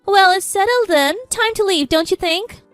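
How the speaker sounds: high, loudish icy dismissal; cold. A narrator's reading. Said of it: "My mother-in-law spoke coldly".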